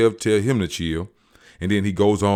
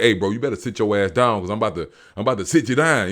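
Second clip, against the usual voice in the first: mock bodyguard threat; 4 semitones higher, 5 dB louder, much faster than usual. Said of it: "Herschel like".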